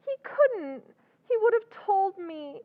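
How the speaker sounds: crying. Acted. Sister weeping over Henry.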